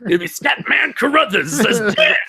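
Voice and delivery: high, squealed through laughter; joking outburst. Pretend. Host jokes about his favorite Transformer, laughing high. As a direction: crack up while giving the joke answer.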